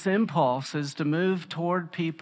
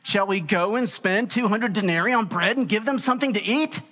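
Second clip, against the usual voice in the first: sassy sarcasm; 4 semitones higher than usual. Retold or imitated. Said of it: "come right back with a little sass".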